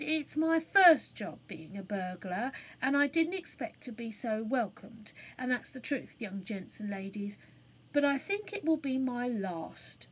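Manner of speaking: a hint of a cockney man; lightly voiced cockney burglar; rough burglar. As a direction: confess a bit sheepishly. Burglar confesses.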